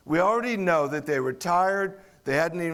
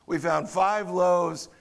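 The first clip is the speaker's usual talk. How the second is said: certain tone. Retold or imitated. Disciples report five loaves to Jesus, mild sarcasm. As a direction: drag it out with light disdain. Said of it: "they said that with a certain tone".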